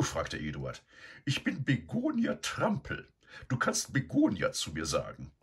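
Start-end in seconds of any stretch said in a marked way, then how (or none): 1.2-5.3 high, brisk bossy sow; energetic. A narrator's reading. Sow introducing herself to Eduard, energetic and bossy. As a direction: announce herself firmly as a bossy lady pig. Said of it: "erwiderte die Dame energisch".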